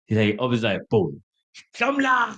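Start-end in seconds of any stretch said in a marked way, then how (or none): 1.8-2.4 high-pitched sudden holler, acted; imitated drunken call. Drunk friend opens his eyes and calls him, mock high cry.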